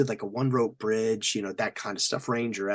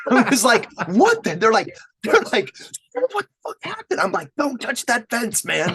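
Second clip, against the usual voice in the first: talking through loud laughter; laughing; 12 semitones higher, 8 dB louder than usual. Real, not acted. Veteran recalling electric fence shock to friend, laughing hard.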